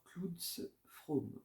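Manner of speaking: English accent on the name; proud English accent on the name. Shown as a demonstration. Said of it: "Vous remarquerez mon accent".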